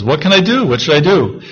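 high, pleading questions, acted out; desperate man. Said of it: "And the man says".

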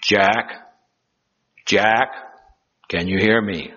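a hint of a voice from above; lightly voiced mysterious voice. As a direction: call down to him, calm and spaced out. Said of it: "and the voice goes".

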